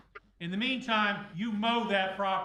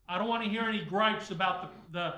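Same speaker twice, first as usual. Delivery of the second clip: loud sharp voice; 4 dB louder than usual. Real, not acted. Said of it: "Why are you yelling at us?".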